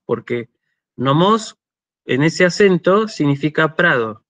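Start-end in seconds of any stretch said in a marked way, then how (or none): 1.0-1.6 "nomos" stressed on the last syllable, no-MOS; stress on final syllable. Shown as a demonstration. Teacher showing students the word for meadow, "nomos" stressed on last syllable. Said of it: "ojo ahí con el acento de nomos".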